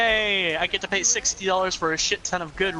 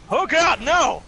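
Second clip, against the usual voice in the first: high squealing protest; 10 semitones higher, 6 dB louder, slower than usual. Acted. Flower voice continues, protesting.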